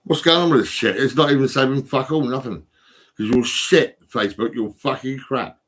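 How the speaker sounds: loud, frustrated yelling at the app; angry rant at Facebook. Real, not acted. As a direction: shout your fury at a broken website. Yelling at Facebook for not saving.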